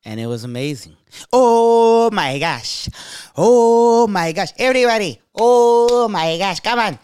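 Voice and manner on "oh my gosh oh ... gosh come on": high, loud, drawn-out crowd hyping; club hype man. Retold or imitated. Club owner hyping up the crowd, loud hype man voice. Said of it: "He was the hype man with that voice".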